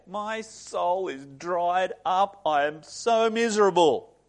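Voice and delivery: drawn-out, self-pitying mock misery; mock tantrum. Preacher mimics Israelites who feel dried up, mock tantrum. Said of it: "having a little tantrum here".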